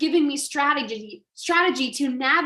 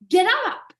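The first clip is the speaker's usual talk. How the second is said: sharp high call to get up; commanding; 8 semitones higher, 3 dB louder than usual. Acted. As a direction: snap them back onto their feet. Coaching a fallen listener.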